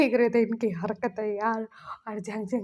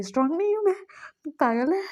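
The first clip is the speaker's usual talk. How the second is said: much higher, offended outburst; insulted boy snapping back at a teasing friend; indignant protest; 6 semitones higher, faster than usual. Acted. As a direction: bristle at being called weak. V protests being called weak.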